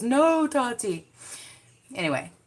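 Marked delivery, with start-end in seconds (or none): 0.0-1.1 slow, drawn-out mimic of the meme line; hint of a wailing meme voice; mock "No, Tati" quote. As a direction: stretch out "No, Tati" like the viral clip. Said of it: "The funniest part was".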